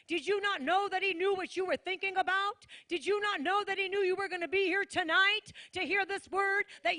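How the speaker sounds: fiery preacher crying out; preaching shout. Real, not acted. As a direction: shout it over the church.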